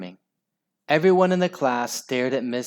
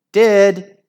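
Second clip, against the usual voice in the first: high, loud retort; shout; 8 semitones higher, 10 dB louder than usual. Acted. Inky Ian arguing with Ralph, shouting. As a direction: fire it back. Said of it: "shouted Inky Ian".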